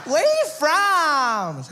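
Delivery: put-on high, loud, stretched surfer-girl call; California babe. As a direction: shout it as a gushing beach girl. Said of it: "California babe".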